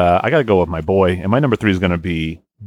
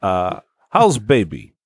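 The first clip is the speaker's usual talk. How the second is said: put-on Russian accent; much slower than usual.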